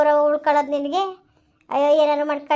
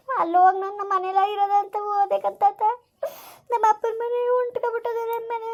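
tearful and quiet, voice pitched up; sobbing through a sad complaint; crying; 3 semitones higher, 3 dB quieter than usual. Acted. Niece pours out her grief to grandfather, crying. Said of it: "ಆಯ್ತು ಅಳ್ಬೇಡ".

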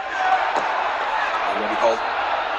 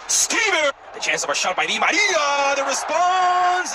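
excited shout; 12 semitones higher, slower than usual. Real, not acted. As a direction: shout the chance as it happens. Big chance, commentator shouting.

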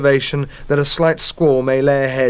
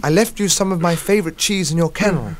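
squeaky mouse; 5 semitones higher than usual. Acted. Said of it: "squeaked Millie".

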